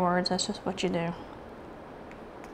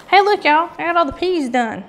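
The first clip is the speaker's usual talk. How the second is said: excited; 8 semitones higher, 6 dB louder than usual. Real, not acted. Showing off finished color.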